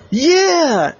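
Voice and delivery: high, loud victory whoop; triumphant yeah. Acted. Oliver whooping after catching the ball, high and loud. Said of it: "And he said".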